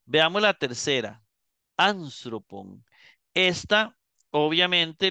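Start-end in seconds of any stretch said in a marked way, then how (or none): 1.8-2.8 Anstropon stressed on the first syllable, AN; acento en antepenúltima. Shown as a demonstration. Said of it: "el acento sigue en la tercera". (Anstropon despacio, con el acento en AN)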